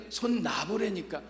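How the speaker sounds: slow, soft insistence from God. Retold or imitated. God pressing the man to let go, slow and soft. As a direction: insist calmly, drawing it out.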